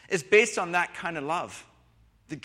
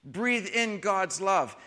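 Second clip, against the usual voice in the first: slow calm invitation; 2 semitones higher, much slower than usual. Shown as a demonstration. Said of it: "That's the breathing in part".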